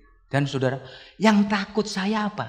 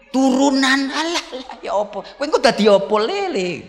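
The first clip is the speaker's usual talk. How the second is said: scolding parent; 3 dB louder than usual. Acted. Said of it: "Ojo kok onek-onek nih anakmu".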